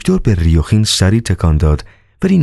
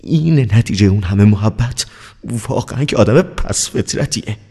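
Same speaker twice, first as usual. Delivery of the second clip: resentful thought; 5 semitones higher than usual. Acted. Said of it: "با دلخوری اندیشید".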